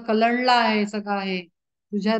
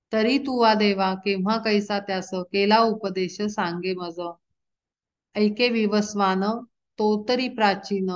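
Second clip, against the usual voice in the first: devotional verse recitation. Acted. Preacher reciting Arjuna's plea to Krishna, measured chant. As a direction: intone each line of the abhang like a kirtan.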